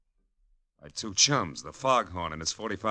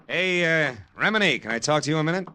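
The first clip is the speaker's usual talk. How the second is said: calling out; 11 semitones higher, 4 dB louder than usual. Acted. Calling to reporter across room.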